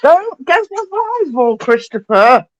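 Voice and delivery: high, drawn-out start settling into a chiding tone. Real, not acted. Parent telling Christopher to leave the Bible, high-pitched scolding. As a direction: chide a little one mid-task. Scolding a child mid-stream.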